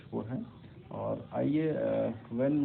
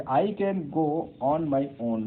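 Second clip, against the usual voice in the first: blunt statement; 3 semitones higher, 4 dB louder, much slower than usual. Shown as a demonstration. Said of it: "It's fine".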